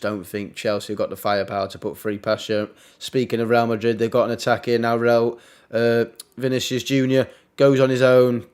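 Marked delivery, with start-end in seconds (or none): 3.0-8.4 excited commentary. Real, not acted. Live call of a Madrid attack.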